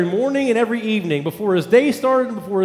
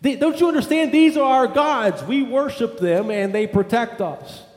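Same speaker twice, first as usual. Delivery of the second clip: upset father scolding; 5 semitones higher than usual. Retold or imitated. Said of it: "the father was kind of upset about this".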